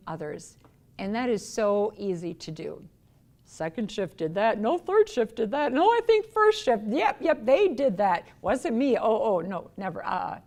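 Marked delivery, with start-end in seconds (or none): 3.4-10.4 high, loud, rattled excuses; mock panicky employee dodging blame; blame-shifting worker. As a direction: pass the buck in a flustered rush.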